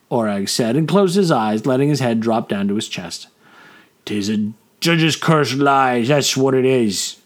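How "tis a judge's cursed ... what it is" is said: put-on drunken slur, tongue tripping; slurred. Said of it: "slurred Gullach".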